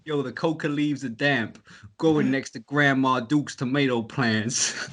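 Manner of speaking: slow New York rap delivery; New York rapper accent. Retold or imitated. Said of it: "Props to you for spitting it with the accent".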